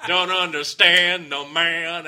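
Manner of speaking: high, loud, slow laughing clown; mock a goofy clown, laughing; silly clown. Mockery of a band.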